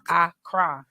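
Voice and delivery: Accra with the weight on CRA; Accra, stressed ac-CRA; stress on second syllable. Shown as a demonstration. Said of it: "gotta put the emphasis in the right place".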